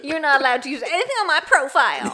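loud high bratty gremlin; angry gremlin voice. Acted. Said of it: "can you do the voice again".

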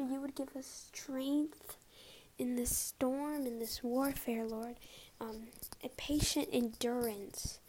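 praying. Acted. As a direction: pray it out, intimate and earnest. Leads a closing prayer.

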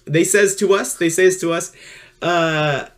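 mild sports commentator voice. Acted. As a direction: call it like a sportscaster. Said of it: "I'm just gonna do my sports commentator voice".

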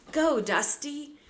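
loud, high, drawn-out urging; urgent command. A narrator's reading. Boy snapping reins to escape, urgent shout. Jack urging horse to flee.

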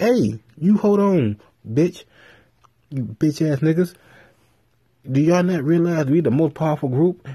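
a hammed-up Batman chewing out his friends; mock angry rant. Batman retold, yelling at the team.

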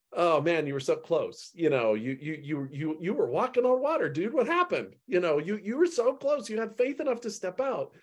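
high, playful teasing Jesus; amused, fond disbelief; with a twinkle. Acted. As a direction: gently rib him like an old friend. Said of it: "I've got to read this with a twinkle".

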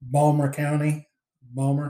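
"Balmer County" slowed, "Balmer" with no t; Baltimore accent. Shown as a demonstration. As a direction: drawl out "Balmer County" like a local. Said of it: "the way they say it in the Baltimore accent is Balmer".

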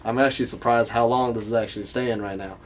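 chatting on in a put-on Southern accent. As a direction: stay stuck in Southern character. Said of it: "I can't get out of this accent".

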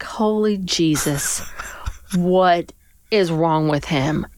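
hushed, slow whisper of alarm; whispered aside. Retold or imitated. Mother whispering in alarm at her drunk husband, slow hushed whisper. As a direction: breathe it out under your breath in shock. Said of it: "and I'm like".

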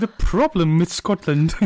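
put-on film villain voice; bad Longshanks impression. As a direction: correct the line with a hammed-up impression. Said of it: "impressions going on here".

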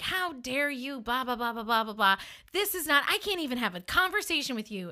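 retold indignant rant, rattling through the blahs; mock outrage, pitching up in disbelief; berating. Woman berating her date in a restaurant, indignant. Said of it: "berated him".

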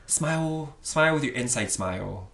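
soft imitation of a gentle instructor; softly coax, as a yoga teacher would; lovely yoga teacher. Imitating a YouTube yoga teacher's little sayings, soft and lovely. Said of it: "says these lovely little things like".

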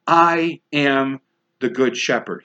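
"I am" stressed and set apart by a pause; with emphasis. Retold or imitated. Preacher quoting Jesus to the congregation, emphatic. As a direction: lean on "I am", then drop into "the good shepherd". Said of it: "with emphasis, says".

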